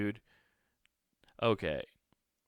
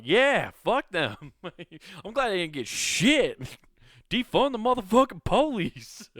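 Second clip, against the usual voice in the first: gleeful laughing; 9 semitones higher, 7 dB louder than usual. Retold or imitated. Gleeful imagined Collins quote.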